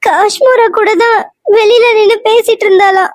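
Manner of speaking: put-on wife tells husband the girl is missing, crying. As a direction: sob it out to your husband. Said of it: "ஏன் அழுவுற?".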